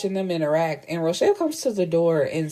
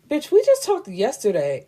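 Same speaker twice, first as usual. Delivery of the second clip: exasperated, higher-pitched mock retort; exasperated embellishment; 4 semitones higher than usual. Storyteller calling the lawyer a bitch, exasperated. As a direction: hit the first word high, mock exasperated. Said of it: "but I'm calling her a bitch".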